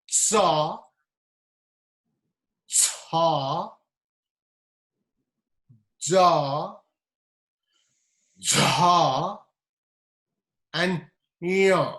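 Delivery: cha, ja, ya with tongue on the hard palate; palatal consonants demo. Shown as a demonstration. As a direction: say each palatal syllable slowly. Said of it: "let's practice this together".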